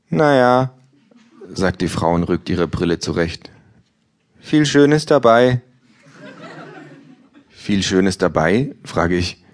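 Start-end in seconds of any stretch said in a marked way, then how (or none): 0.1-0.7 hoher, gelangweilter Frauenton; Buchhändlerin. Acted. Bookseller voiced by reader. 4.4-5.6 hoch und langsam, lustlos; lustlose Buchhändlerin. Acted. Bookseller voiced, high pitch.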